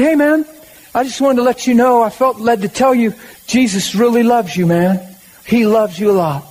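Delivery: high, earnest call across to a stranger; a friend calling to a man at a bus stop; eager friendly call. Retold or imitated. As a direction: tell him Jesus loves him, bright and keen.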